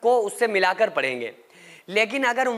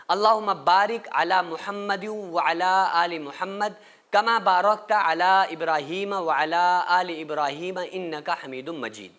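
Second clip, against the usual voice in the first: recitation; 2 semitones lower than usual. Shown as a demonstration. Recites second durood. (धीमी तिलावत)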